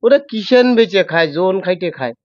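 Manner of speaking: telling the coconut theft story in Jessore dialect; a lightly voiced Jessore Bengali telling. Shown as a demonstration. Host asks for Jessore dialect, guest tells it in Jessore dialect. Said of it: "তুমি যশোরের ভাষায়".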